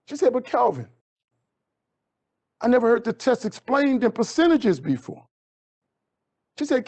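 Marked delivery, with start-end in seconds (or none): 0.3-5.3 a hint of a surprised teacher, pitched higher; lightly voiced teacher. Teacher Miss V reacting to Kelvin's score, lightly voiced higher.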